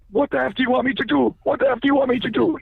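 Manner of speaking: high, loud mock yell, imitating the man; retold scream. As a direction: re-enact him screaming the question, a touch held back. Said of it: "he's screaming really loud".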